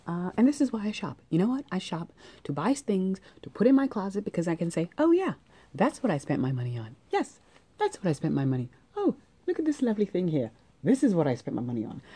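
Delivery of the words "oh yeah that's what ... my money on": playful fake pride; mock delighted gushing. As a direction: gush over your purchases like a proud owner. Mock-proud closet speech.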